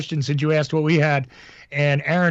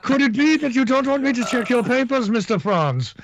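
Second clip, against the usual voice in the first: higher, laughing interrogation voice put on for a joke; mock interrogator; 6 semitones higher than usual. Host teasing cohost about his German past, hammed-up interrogator voice. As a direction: grill him like a film officer checking papers, barely holding back laughter.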